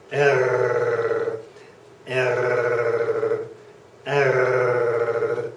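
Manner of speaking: "err" rasped way back in the throat, tongue still; throaty r. Shown as a demonstration. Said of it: "Way in the back of the throat".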